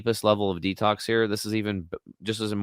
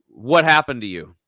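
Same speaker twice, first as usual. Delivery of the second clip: a louder, shocked "What happened to you?"; the therapist taken aback when he walks in; startled question; 8 dB louder than usual. Retold or imitated. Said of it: "Talking to me like that".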